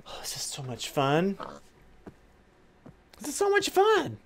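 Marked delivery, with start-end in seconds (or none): 3.2-4.2 squeaky voice. Pretend. Repeated line, higher voice.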